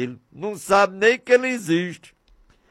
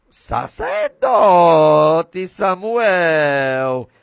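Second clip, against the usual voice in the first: divine call; 3 dB louder, much slower than usual. Acted. God calls the priest Samuel.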